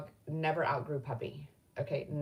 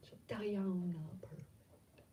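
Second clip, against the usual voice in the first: soft, trailing-off aside; muttered repeat; 10 dB quieter than usual. Real, not acted. Admitting she is not perfect, muttered softly. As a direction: say it under your breath. Repeats it to herself, much softer.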